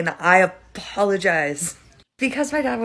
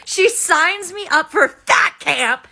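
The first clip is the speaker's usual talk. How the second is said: indignant rant; 5 semitones higher than usual. Real, not acted. Indignant retelling of stepmom.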